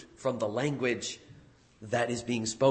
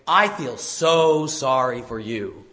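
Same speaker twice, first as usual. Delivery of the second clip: mock sympathy; 2 semitones lower, 3 dB louder, slower than usual. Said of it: "Jesus is essentially saying".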